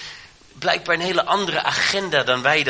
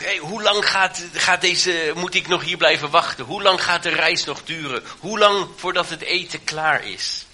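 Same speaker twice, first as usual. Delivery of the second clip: put-on impatient children; 4 semitones higher than usual. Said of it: "De kinderen roepen ook".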